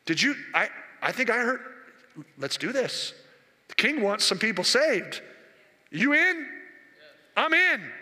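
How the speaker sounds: pumped, ready to go; rallying each other; eager recruits. Acted. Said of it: "So we go".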